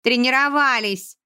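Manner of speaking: slow, panting answer; breathless. A narrator's reading. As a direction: pant it out after the run. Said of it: "задыхаясь, ответила Эрджи". (задыхаясь)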